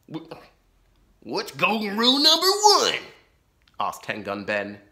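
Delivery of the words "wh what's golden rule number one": high, loud baffled outlaw; puzzled outlaw. A narrator's reading. Ten Gun Ben asks Laura, high and baffled. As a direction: ask it, thrown off.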